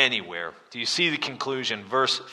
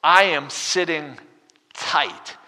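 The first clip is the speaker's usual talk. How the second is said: unbothered lion; 8 semitones higher, 8 dB louder, slower than usual. Retold or imitated. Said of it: "He's like".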